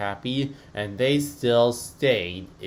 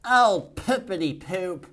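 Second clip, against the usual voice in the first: said weakly; 8 semitones higher, 4 dB louder than usual. Acted. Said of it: "he said weakly".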